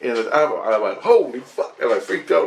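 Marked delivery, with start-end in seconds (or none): 1.0-1.8 higher, louder startled curse; retold shock. Digger stumbles on a human skeleton, shocked. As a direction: exclaim it in alarm.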